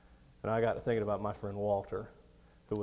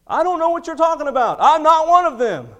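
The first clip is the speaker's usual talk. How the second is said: much higher, loud desperate shout; yelling denial; 15 dB louder than usual. Acted. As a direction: scream the denial to make them stop. Peter's third denial, yelling.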